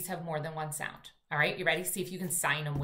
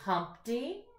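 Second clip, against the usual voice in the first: very slow, word by word reading; slow read-aloud; much slower than usual. Shown as a demonstration. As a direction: drag out "Dumpty sat on a wall" for little readers.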